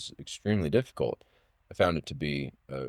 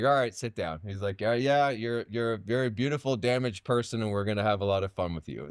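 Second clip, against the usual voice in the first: imitating teacher; 4 semitones higher than usual. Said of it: "he was like".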